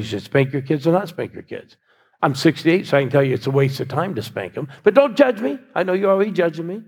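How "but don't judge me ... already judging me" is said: playful aside. Real, not acted. Joking aside to congregation.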